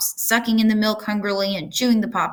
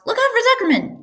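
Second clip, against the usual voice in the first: much higher, louder gander yell; 3 dB louder than usual. A narrator's reading. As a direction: shout for him to come. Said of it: "yelled the gander".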